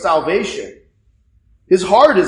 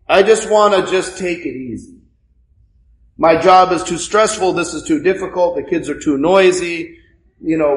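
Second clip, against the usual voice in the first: lazy whiner; 5 semitones lower than usual. Retold or imitated. Parishioner voiced wanting vacation.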